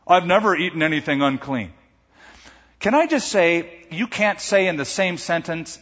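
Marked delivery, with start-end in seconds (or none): 0.1-1.7 indignant Peter. Retold or imitated. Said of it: "He goes".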